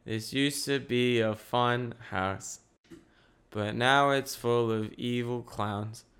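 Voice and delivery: slow, soft, droning monotone. Retold or imitated. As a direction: drone it out slowly with no tune. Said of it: "in a monotone voice just saying".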